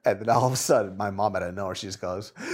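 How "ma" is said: mock wail, very high and drawn out; imitated mourning scream. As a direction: imitate a mother's sudden funeral scream. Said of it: "after you just screamed".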